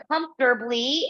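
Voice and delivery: "comfortably" set apart after a pause; emphasized COMFORTABLY. Real, not acted. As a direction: lean on the word "comfortably". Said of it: "I emphasize the word comfortably".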